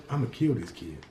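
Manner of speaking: put-on as if only mouthing it behind the kid's back; mouthed. A narrator's reading. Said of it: "He mouths the words".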